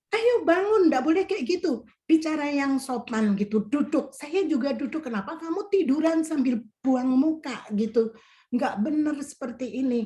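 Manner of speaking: snapping at her to get up and sit properly; retold scolding. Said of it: "saya kayak bentak-bentak dia".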